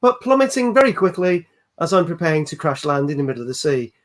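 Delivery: lightly voiced mock cabin announcement; a hint of airline pilot on the intercom. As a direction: address the passengers like a captain announcing disaster matter-of-factly. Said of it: "Let's hear your best pilot voice".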